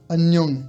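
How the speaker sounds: Annyeong with both N sounds clearly said; teacher demo of annyeong. Shown as a demonstration. Teacher shows the class Korean annyeong, both N pressed. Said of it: "on va bien les prononcer les deux".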